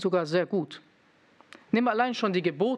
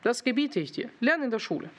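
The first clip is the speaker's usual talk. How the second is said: a hint of a stern father, raised higher; 5 semitones higher than usual. Father ordering his son to study, lightly stern. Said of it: "Mein Vater hat mir gesagt".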